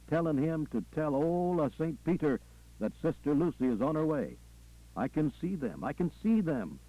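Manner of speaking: lightly voiced Southern preacher in full vision; preacher, visionary. Preacher telling his flock what he sees in heaven, fervent. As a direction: preach it in rolling, repeated phrases.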